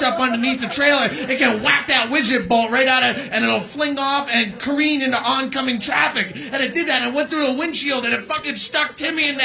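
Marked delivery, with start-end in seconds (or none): none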